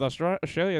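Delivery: "Australia" said with a slight Australian accent. Real, not acted. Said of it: "almost say it with an Australian".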